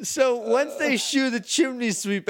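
high, laugh-strained storytelling; real leftover laughter in the voice; recovering from laughter. Real, not acted. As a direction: carry on while still getting over a giggle fit. Still recovering from laughing fit.

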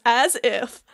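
lightly imitated gruff old man; a hint of an old man acting cool; Keanu Reeves. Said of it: "their Keanu Reeves impression".

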